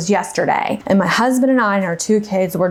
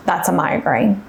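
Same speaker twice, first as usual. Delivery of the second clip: lower, understated retelling of a calm reply; calm husband; 4 semitones lower than usual. Retold or imitated. Husband answering his panicking wife, calmly. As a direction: lightly voice an unruffled husband. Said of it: "he just calmly looked at me and said".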